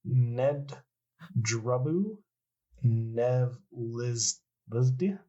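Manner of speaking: sounding out a name in reverse; backwards speech. Pretend. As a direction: read the name backwards, slow and unsure. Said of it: "I'm gonna say it backwards".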